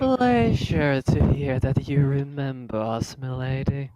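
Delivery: slow, lightly voiced gallant greeting; courtly greeting in character. Cronus greets the lieutenant who remembers the group, lightly courtly. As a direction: draw it out with a touch of courtliness.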